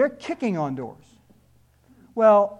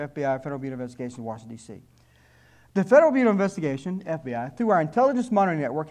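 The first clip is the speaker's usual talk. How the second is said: mock official letter read; 3 dB louder than usual. Shown as a demonstration. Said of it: "May I read this to you?".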